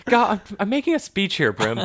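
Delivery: high laughing protest. Real, not acted. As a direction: laugh through the mock complaint. Laughing exasperation at dog.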